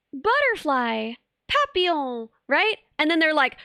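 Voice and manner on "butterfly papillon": slow, easy lilt on each word; gentle demonstration. Retold or imitated. Streamer imitating comparison videos, gentle demonstration voice. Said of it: "videos where people demonstrate it".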